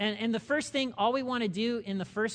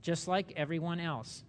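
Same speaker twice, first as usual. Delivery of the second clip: slow, measured scripture reading. Real, not acted. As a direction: read it out slowly so listeners can follow. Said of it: "I'm reading this slowly".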